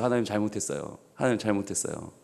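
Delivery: low, hushed plea to God; softly begging forgiveness; repentant prayer. Retold or imitated. Boy quietly repenting to God, low and hushed.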